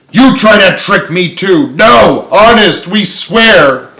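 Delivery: high, loud panicked denial; frightened shriek. Acted. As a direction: shriek it out in fear. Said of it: "Clara shrieked".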